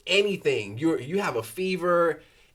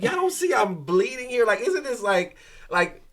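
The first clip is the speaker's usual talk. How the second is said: raised-pitch, incredulous complaint; indignant protest; 4 semitones higher, 3 dB louder than usual. Retold or imitated. Patient protesting being turned away from urgent care, indignant.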